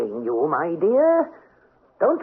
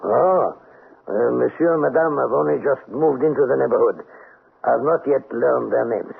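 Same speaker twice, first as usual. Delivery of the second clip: amused cafe owner; 4 semitones lower than usual. Acted.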